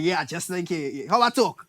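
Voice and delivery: a mocking Trinidadian accent, slowed right down. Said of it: "all Trinity".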